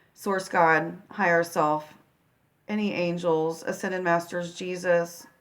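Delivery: soft, unhurried prayer with long pauses. Real, not acted. Healer praying to Source and angels before a guided meditation, quiet prayer. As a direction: pray quietly, asking for guidance.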